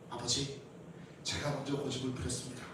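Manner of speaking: 낮고 작게 잘못을 고백하는 아이 흉내; 풀 죽은 듯 조용히 사과하는 척; 공손한 반성 흉내. Pretend. 아이가 부모에게 반성하는 상황. (낮은 목소리로 얌전히 반성하는 척)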